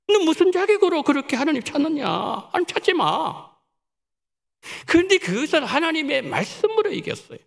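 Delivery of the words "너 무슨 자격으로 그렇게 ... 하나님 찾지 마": higher, scornful devil's jeer fading at the end; mocking devil voice; taunting devil. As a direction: jeer at her, then settle into a cold command. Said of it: "마귀가 이렇게 유혹하는 거예요".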